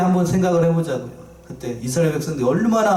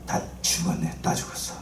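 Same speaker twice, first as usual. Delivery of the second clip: low, hushed voice drained of hope; 12 semitones lower, 9 dB quieter than usual. Acted. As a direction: croak it under your breath as if all is lost. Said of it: "지금 저처럼". (절망에 빠져 낮게 속삭이듯)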